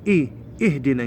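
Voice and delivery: اهدنا begun on a clear glottal "i"; teacher's model, "ih-dinaa" for اهدنا; hamza cut. Shown as a demonstration. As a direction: attack the first vowel of اهدنا. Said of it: "نسوي همزة قطع".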